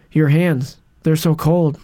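deadpan, emotionless line read; flat line reading. Retold or imitated. Podcaster mimicking actress's flat line delivery. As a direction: read it with no feeling at all, like a bored actress. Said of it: "I'm gonna say the line exactly how she says it".

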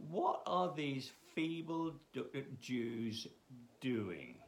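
a hint of a slow scoffing ruler; mocking Sanballat. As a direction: sneer lightly at the feeble Jews. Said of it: "he's just mocking them".

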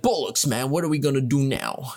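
lightly imitated Irish accent; half-hearted attempt at an Irishman's accent; a hint of badly faked Irish. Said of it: "He has, like, this accent".

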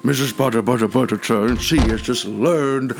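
lightly voiced host character. Introduces Missus Butterton to boys.

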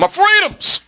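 high mocking cry of a freedom guy. Mocking the commenters with a high whine. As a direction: whine it like a cartoon patriot.

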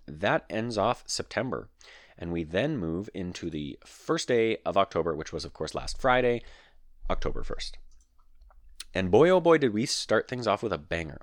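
clicky, dry mouth sounds; talking with a dry, clicky mouth; mouth noises. Real, not acted. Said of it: "sorry for all the mouth noises in this recording".

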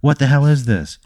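half-hearted scream, quick and high; mock screaming. Horny Hank waking up trapped, mild mock scream. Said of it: "he just starts screaming".

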